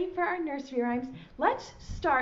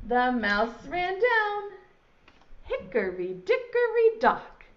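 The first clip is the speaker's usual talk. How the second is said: nursery rhyme recital. Shown as a demonstration. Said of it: "It goes like this".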